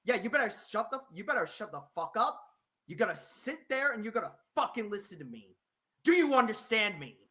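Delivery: cold, threatening tirade; furious warning to the caller; angry. Real, not acted. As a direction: lay down the law, seething. Streamer berating caller.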